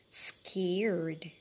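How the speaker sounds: whispered, as if frightened; scared whisper. Shown as a demonstration. Teacher modelling the word for kids, scared whisper. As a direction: breathe the word out like a scared child. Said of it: "Now it's time that you repeat after me".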